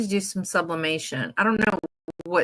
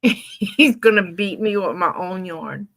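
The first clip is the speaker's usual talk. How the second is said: laughing; 3 dB louder than usual. Real, not acted. Laughing at the joke.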